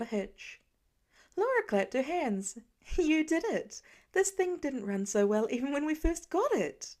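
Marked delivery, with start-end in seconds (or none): 3.0-7.0 higher and louder, bursting with delight; excited praise. Acted. Laura cheering Pete for fixing the dishwasher, excited. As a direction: cheer him on like a proud mom.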